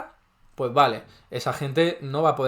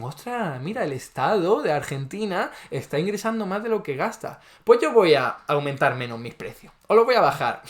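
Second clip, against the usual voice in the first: mock vendors; 2 semitones higher than usual. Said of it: "Los vendedores dicen".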